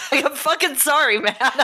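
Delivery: laughing apology. Real, not acted.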